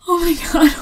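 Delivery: excited shout; loud. Acted. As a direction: shout it out in awe. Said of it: "I'm sorry I'm being loud".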